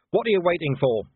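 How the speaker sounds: loud, high challenging yell. Acted. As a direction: shout at them to come on. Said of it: "Vimes yelled".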